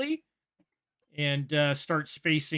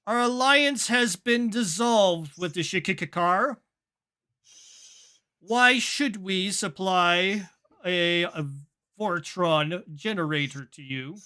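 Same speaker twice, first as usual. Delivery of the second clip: scowling commander; 3 semitones higher than usual. Acted. Commander refusing the crew's request, with a scowl. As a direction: challenge them with a scowl. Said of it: "scowl on her face".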